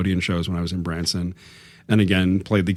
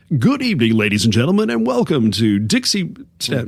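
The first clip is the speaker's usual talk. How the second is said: forced, high, swooping showman radio announcer voice; 5 semitones higher, 4 dB louder than usual. Recalling playing the rodeo show's host for the audience, forced radio announcer voice. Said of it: "that forced radio sound".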